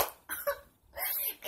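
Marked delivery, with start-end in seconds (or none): 0.0-0.0 high, loud burst of delight, drawn-out oh; excited shriek. Real, not acted. Vlogger suddenly remembering a friend, excited squeal. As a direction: squeal her name as it hits you.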